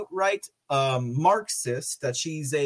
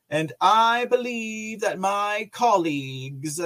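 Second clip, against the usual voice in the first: mock senator voice. Host reads the senator's statement aloud, mock senatorial voice. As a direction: intone it like a speech, stretching key words. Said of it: "they probably talk like that".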